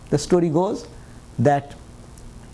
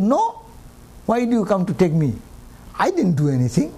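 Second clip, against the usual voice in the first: acted protest. Accused gardener refusing Death's messenger, acted protest. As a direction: protest your innocence, lightly acted.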